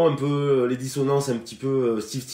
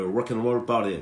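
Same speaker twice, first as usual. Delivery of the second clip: slow, self-conscious English on the song title; the song title in a bad English accent, said slowly; clumsy English accent; 2 semitones lower, slower than usual. Real, not acted. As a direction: try the song title in English and stumble. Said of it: "Mon accent est pourri".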